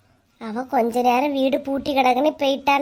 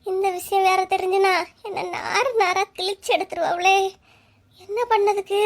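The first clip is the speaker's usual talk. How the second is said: tearful; 3 semitones higher than usual. Acted. Wife fearing her husband's anger, tearful. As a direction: voice cracking into a cry.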